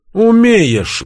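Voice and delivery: high, loud mocking echo; mocking mimicry. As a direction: throw the word back, mimicking. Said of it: "передразнил меня Игорь".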